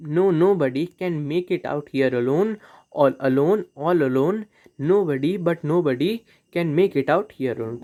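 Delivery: slow, measured recitation of the lines; poem reading. Acted. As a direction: read it out like a poem, slowly. Reads poem example slowly.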